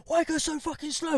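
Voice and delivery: high-pitched mock road rage; imitated irate driver. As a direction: mouth off like an impatient driver. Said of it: "he's mouthing off".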